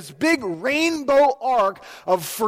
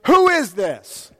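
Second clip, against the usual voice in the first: incredulous; 3 semitones higher, 6 dB louder, slower than usual. Retold or imitated. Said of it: "Abraham's response is".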